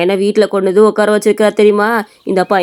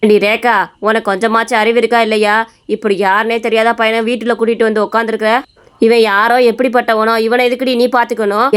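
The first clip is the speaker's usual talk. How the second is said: mildly angry scolding mother; acted motherly telling-off. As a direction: scold a daughter with mild heat. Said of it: "அவங்க ரொம்ப கடுமையான கோவத்தோட".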